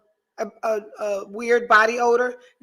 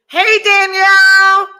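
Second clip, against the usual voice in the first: loud, slow call across the room, pitched high; 9 semitones higher, 11 dB louder, slower than usual. Real, not acted. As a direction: call out to Danielle backstage, drawn out. Calling out to producer offstage.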